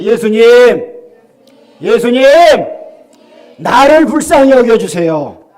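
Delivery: loud, slow call for the congregation to repeat; preacher leading the congregation in a cry, loud and slow; calling for mercy. Shown as a demonstration. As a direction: lead the plea loudly and slowly. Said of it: "저를 한번 따라합시다".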